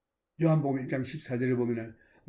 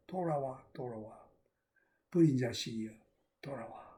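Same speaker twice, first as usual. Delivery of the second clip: father's soft call; 5 semitones lower, 6 dB quieter than usual. Acted. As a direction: call him home gently, almost under the breath. Father calling the lost son. (잃은 아들을 부르는 아버지의 나지막한 부름)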